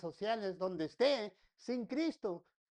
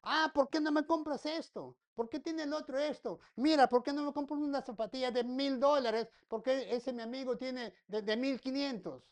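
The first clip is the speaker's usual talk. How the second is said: put-on whiny child; 3 semitones higher, 3 dB louder than usual. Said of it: "la protesta sigue allí".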